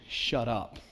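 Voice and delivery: low, soft and cutting; a quick harsh word to silence him; stern rebuke. Retold or imitated. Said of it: "Stern, harsh, quick rebuke".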